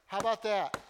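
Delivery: loud, heartfelt cry of a plea; a loud impassioned plea; passionate plea. Shown as a demonstration. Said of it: "That's what Isaac's doing".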